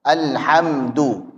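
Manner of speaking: "Alhamdu" very slow, m held, light "du"; flowing mim, thin dal. Shown as a demonstration. Teacher sums up the letters, slow careful "Alhamdu". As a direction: draw out "Alhamdu", thin ending.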